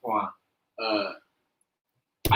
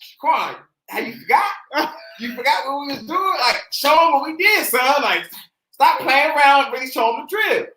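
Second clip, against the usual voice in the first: scolding dad; 5 semitones higher, 4 dB louder than usual. Retold or imitated. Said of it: "He was like".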